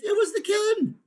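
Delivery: high, loud blaming voice; high shouted accusation; accusing shout. Acted. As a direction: point the finger, loudly. Quarrel continues.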